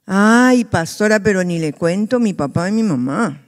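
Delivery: mock complaint to God. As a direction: moan as if fed up with everyone. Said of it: "O de repente gritamos".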